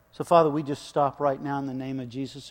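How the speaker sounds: hushed pulpit prayer voice. Acted. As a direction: congregation prayer led from the pulpit. Pastor turns to prayer.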